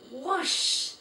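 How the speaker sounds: high, loud exclamation of disgust; mock whoosh of disgust. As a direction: blow it out at the stench. Felicity exclaims at the smell.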